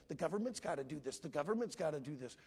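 fast imitation of people's constant complaint; mimicked refrain. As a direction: rattle it off like a tired, repeated demand. Mimics people's repeated demand.

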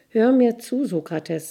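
eager stranger pressing to tell; urgent. Acted. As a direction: demand to be heard, bursting with news. Stranger urgently begins his news.

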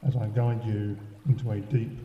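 unhurried relaxation guide, leaving space after each instruction; guided sleep meditation. Acted. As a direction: lull the listener towards sleep, phrase by phrase. Leads a sleep self-hypnosis meditation.

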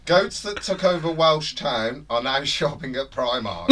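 laughing. Real, not acted. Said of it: "The ti-, the title".

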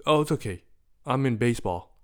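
put-on chirpy little kid shrugging it off; upbeat kid. Boy reassuring the adult, chirpy kid voice.

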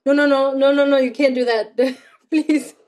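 acted flustered wife begging; retold panic. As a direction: plead in rapid repeats, half laughing by the end. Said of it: "panic just comes in me like".

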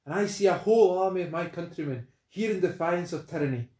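lightly Scottish hero declaiming; rally the army, Scottish voice; Scottish rallying speech. Acted. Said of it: "In my most Scottish accent".

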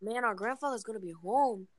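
Latino-accented mock telenovela scolding; put-on Latino accent. Blaming Carlos for lost money and drugs, in a put-on Latino accent. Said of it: "talk with the accent".

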